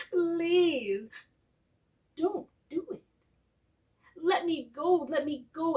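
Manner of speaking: high, pleading little parrot voice, begging for its life; a bird begging the hunter to spare it, pitched high. Acted. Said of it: "who began to speak".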